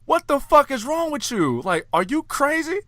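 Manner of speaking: imitating a character's disbelief; retold character asking the uncle if he's crazy; exasperated question. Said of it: "Doug was like".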